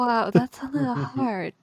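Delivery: ordinary talk, nothing marked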